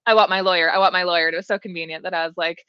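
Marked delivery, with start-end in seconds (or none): 0.0-1.3 louder, firm repeated demand. Retold or imitated. Quoting a TikTok tip for dealing with cops, firm. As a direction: insist on a lawyer, twice. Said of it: "you just say, like".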